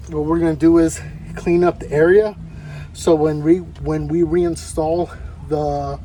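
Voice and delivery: winded, catching breath between phrases. Real, not acted. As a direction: talk while still panting a little. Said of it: "Sorry, I'm out of breath".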